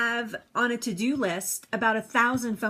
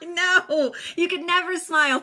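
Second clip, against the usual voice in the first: laughing; 7 semitones higher, 4 dB louder than usual. Real, not acted. Laughing after a viewer comment.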